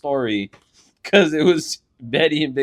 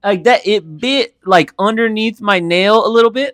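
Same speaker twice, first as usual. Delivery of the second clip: higher and louder, drawn out; worked-up telling; 9 semitones higher, 6 dB louder than usual. Real, not acted. Showing friends his finger, higher, louder and worked up. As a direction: still riled about the bite. Retelling bite, still worked up.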